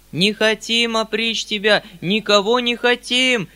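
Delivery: громкий, высокий, протяжный крик толпы; завопи за целый хор мужиков, растягивая слова; вопль мужиков. A narrator's reading. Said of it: "завопили вдруг мужики целым хором". (истошная мольба хором)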